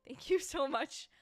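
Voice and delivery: high, loud, slow heartfelt thanks; gushing thanks. Real, not acted. Signing off to her viewers, loud slow heartfelt thanks. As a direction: stretch it out, overflowing with gratitude.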